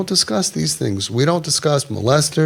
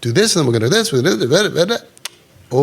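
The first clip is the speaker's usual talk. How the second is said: rapid instructions; 2 semitones higher, faster than usual. Retold or imitated. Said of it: "they get overwhelmed".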